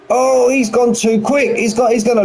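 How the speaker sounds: sudden high exclamation; surprised. Real, not acted. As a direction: react sharply to the mistake. Sudden race moment.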